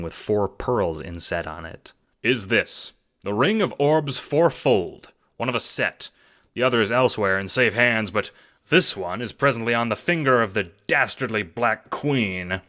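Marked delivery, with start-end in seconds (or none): 2.2-12.6 eager schemer. Acted. Jacob pitching the assassination job, eager and hustling. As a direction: sell the plan like a hustler.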